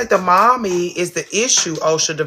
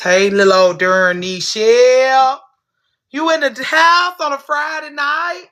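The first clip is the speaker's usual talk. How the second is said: high, slow, loud greeting; excited squeal; 9 semitones higher, 6 dB louder than usual. Real, not acted. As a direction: squeal a happy hello.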